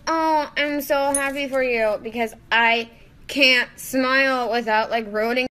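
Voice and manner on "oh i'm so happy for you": high, loud breathy-free gush, lips barely moving; a lightly done Jennifer Coolidge after Botox; Jennifer Coolidge impression. Vlogger imitating a Botoxed actress gushing at good news. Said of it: "I feel like Jennifer Coolidge in a Cinderella story, like, after she gets Botox".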